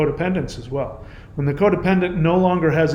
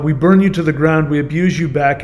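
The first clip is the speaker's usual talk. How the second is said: louder, pointed reading of the commenter's words; mock reading of comment; 4 dB louder than usual. To the commenter, quoting her boast with mocking scorn. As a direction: throw her words back at her. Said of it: "she just said".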